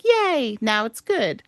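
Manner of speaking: high sarcastic yay; hammed-up yay; mock cheer. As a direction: fake cheer that drops flat. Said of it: "it'll be like".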